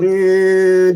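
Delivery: humming like a buzzing bee; bee buzz impression. Shown as a demonstration. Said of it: "That's my impression of a bee".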